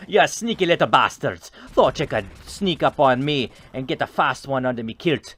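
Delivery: self-mocking bad Scottish voice, gloating; bad Scottish accent. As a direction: taunt the sneaky enemies in a hammed-up Scottish accent. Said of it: "That was the worst Scottish accent ever".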